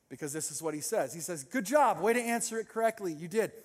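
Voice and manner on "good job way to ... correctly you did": mock congratulations; sarcastic praise. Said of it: "in a very sarcastic voice".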